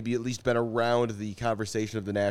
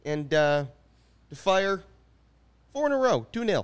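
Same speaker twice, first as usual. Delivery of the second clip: higher hammed-up Chicago superfan voice; Chicago accent; 6 semitones higher than usual. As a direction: channel an SNL Bears superfan. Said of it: "the old Mike Ditka".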